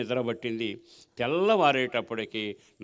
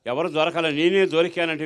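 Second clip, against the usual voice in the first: sarcastic; 4 dB louder than usual. Retold or imitated. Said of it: "వ్యంగ్యంగా మాట్లాడాను".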